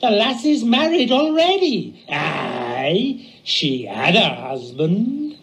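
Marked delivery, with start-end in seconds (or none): 2.1-5.4 tearful, breaking a little on the aye; a catch of tears in the voice; sad. Acted. Sailor telling his shipmate, a little tearful. Sailor tells of Susan's husband.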